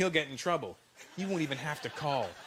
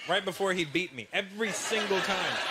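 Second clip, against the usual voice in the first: ordinary delivery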